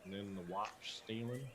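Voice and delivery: folksy Southern clerk musing; Southern accent. Acted. Georgia keeps talking.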